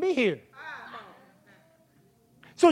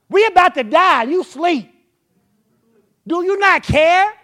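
panicked plea; 6 semitones higher, 10 dB louder than usual. Acted. Disciples panic in the storm.

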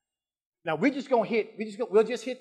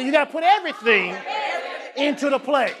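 emphatic repeat; 3 semitones higher than usual. Acted. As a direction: shout it for them to echo. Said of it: "Take a number, say".

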